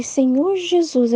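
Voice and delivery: put-on a worried teen calling on Jesus; alarmed cry. (clamor preocupado, lento e erguido)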